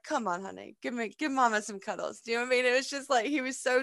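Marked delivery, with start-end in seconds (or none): 0.0-2.2 put-on softer, soothing a child; soft comforting mama voice; tender mum. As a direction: coax him gently in for a cuddle. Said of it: "And I'm like".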